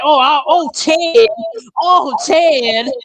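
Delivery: lightly hammed-up lustful moan; mock moaning woman. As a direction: playfully imitate a woman moaning her lover's name. Mocks woman fantasizing about Ted.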